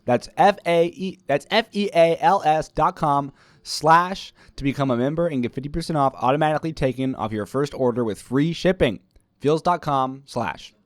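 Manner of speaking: hyped-up practice commercial; sponsor ad read. Shown as a demonstration. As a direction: sell the offer with announcer punch. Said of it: "Practice sponsor ad read".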